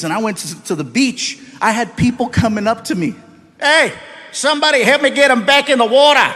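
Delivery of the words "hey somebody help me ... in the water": Aussie beachgoer. Retold or imitated. Aussies at beach, acted quote.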